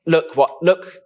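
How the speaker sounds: high, loud, flustered mock alarm; exasperated mum. Mum turning to dad over lost son, exasperated. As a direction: call out to get his attention. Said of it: "and Mum would be like".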